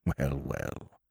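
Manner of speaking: put-on soft, breathy old man's chuckle; a gentle beaming aside; mild and beaming. A narrator's reading. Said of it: "beaming mildly".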